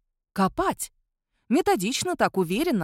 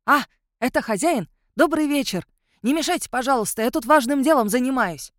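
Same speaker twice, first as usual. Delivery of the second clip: high, loud, cheerful creature chatter; happy eager werewolf; 5 semitones higher, 5 dB louder than usual. A narrator's reading. Werewolf greets cemetery keeper while busy digging, happily excited. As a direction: greet the owner eagerly, pitched up. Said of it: "радостно завилял хвостом".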